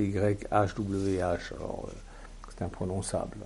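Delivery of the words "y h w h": Y H W H spelled slowly letter by letter; spelling out letters. Shown as a demonstration. Preacher spelling the divine name for the congregation, slow. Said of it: "si vous voulez, en français".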